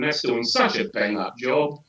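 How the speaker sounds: slow, dry sarcasm; sarcastic. Real, not acted. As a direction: feign praise, drawing out the words. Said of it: "I sense sarcasm".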